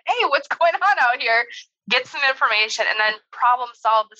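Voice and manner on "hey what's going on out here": calmly said. Retold or imitated. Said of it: "I should have just calmly said".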